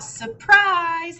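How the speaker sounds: high, loud party shout of surprise. A narrator's reading. Friends leap from hiding to shout at Hare, loud and high. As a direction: burst out with it as the friends jump out. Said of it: "They all shout".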